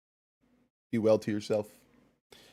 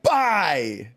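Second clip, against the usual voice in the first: a louder barked one-word order; mock shouted command; 4 semitones higher, 8 dB louder than usual. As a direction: bark it out like chat yelling at you. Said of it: "Morisaki said".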